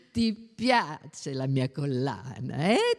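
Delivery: slow, low coaxing voice; cooing. A narrator's reading. Bona lets the little girl touch her pearls, slow cooing. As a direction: draw it out tenderly for a child.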